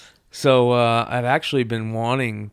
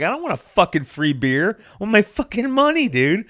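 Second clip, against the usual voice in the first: louder, rising to a high angry yell on money; angry crowd; 8 semitones higher, 7 dB louder than usual. Retold or imitated. Gamblers refused their winnings, yelling angrily. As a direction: mimic a fed-up crowd demanding their money. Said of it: "And everybody's like".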